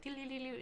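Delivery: high, light doo-doo-doo trill; soft singsong machine sound; imitated machine noise. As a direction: mimic a spinning penny machine.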